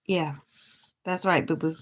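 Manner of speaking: talking between breaths on wet nails; softly talking while blowing on nails. Real, not acted. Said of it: "I'm just blowing on my nails".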